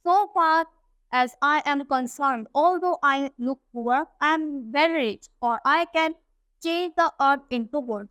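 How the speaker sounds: reads the English text slowly and carefully; unhurried storybook reading; slow story reading. A narrator's reading. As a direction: read it out word by word for the class. Slow English read-aloud of story.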